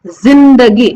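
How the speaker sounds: जिंदगी with a z; z sound. Shown as a demonstration. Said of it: "ज को जो है ना जेड प्रोनाउंस करना है". (जिंदगी में ज़)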